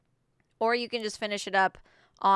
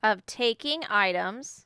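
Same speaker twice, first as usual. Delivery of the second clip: dictating; slower than usual. Shown as a demonstration. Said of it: "I'm doing exact evidence".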